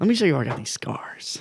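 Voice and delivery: breathy, hushed, breathed-out villain voice. Joking about being cast in the new Batman, doing a Joker impression. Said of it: "sounds like the joker".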